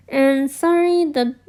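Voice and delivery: talking through real hiccups. Real, not acted. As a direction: catch a hiccup mid sentence. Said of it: "I have hiccups".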